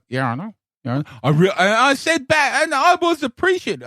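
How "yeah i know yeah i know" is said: light mimic of a bored Little Britain character; a hint of a flat, knowing sitcom catchphrase; Little Britain wheelchair guy. Host imitating the wheelchair guy from Little Britain, lightly. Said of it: "I won't be the guy".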